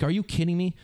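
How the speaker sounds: retold mock astonishment; disbelief. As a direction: exclaim it stunned. Retelling his own disbelief.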